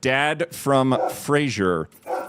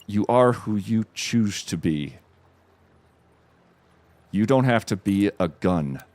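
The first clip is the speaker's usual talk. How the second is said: brave, sincere; 4 semitones lower, 3 dB quieter than usual. Retold or imitated. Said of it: "with the most guts you'll ever see".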